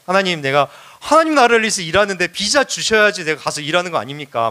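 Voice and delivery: pushy plea, mildly put on; playfully strong-arm God with a demand; mock threatening demand. Missionary pressing God for a visa, mock threatening. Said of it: "하나님 협박하기도 해요".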